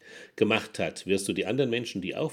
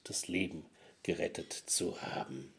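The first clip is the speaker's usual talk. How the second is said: whispered fade; 4 semitones lower, 7 dB quieter than usual. Acted. Sad story ending fades out.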